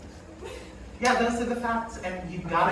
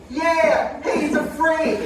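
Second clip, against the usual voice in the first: dismissive dummy voice, raised pitch; Aunt Karen puppet voice; 6 semitones higher, 3 dB louder, slower than usual. Acted. Dummy aunt brushing off the death rate, scoffing.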